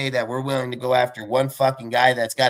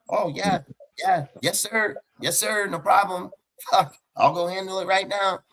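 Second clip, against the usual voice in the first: high, eager yes-sir voice; mock a spineless owner bowing to the boss; groveling yes-man; 7 semitones higher than usual. Imitating the owner sucking up to the commissioner, high and eager.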